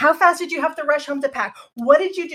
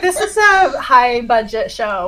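snooty producer; 5 dB louder, slower than usual. Retold or imitated. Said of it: "They're like".

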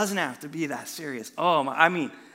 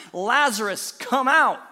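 louder call, rising on come out; shouted command; 4 semitones higher, 7 dB louder than usual. A narrator's reading. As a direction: call him out of the tomb. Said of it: "Then Jesus shouted".

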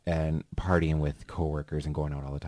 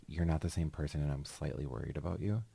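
gentle concern; 2 semitones lower, 10 dB quieter, faster than usual. Acted. Having that conversation with someone changed, softly concerned. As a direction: softly voice a careful check-in.

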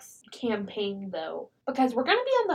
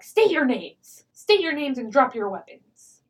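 guard challenge; 2 semitones higher, 5 dB louder than usual. Retold or imitated. Hobgoblin guards challenge them.

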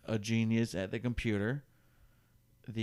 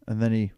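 guffaw; faster than usual. Shown as a demonstration. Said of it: "Like that?".

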